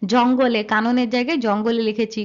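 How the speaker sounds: ordinary talk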